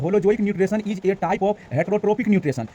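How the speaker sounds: very slow, word-by-word English reading; slow careful reading. Shown as a demonstration. Teacher reading the English definition aloud to students, very slowly. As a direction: spell out each English word slowly for learners. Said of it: "तो लिखे holo".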